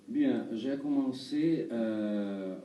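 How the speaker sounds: halting Brazilian-accented French; foreign accent in french. Real, not acted. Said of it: "Pardon, mon français, euh, n'est pas très bien".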